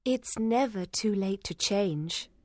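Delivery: slow, tender encouragement; gentle suggestion. A narrator's reading. Young woman reassures a hopeless man, gently. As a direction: suggest it gently, taking your time. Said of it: "Lucy suggested softly".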